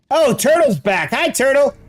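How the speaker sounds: bright high-pitched greeting to a pet. Real, not acted. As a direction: lift the voice way up for the pet.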